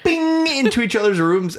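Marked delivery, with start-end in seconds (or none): 0.0-0.5 zipping sound effect. Retold or imitated. Imitates bolting back into rooms.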